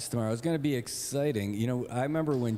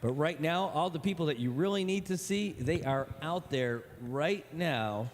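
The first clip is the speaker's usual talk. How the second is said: upbeat broadcast opener; announcer voice; 3 semitones higher than usual. Acted. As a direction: welcome the crowd like a ballpark host.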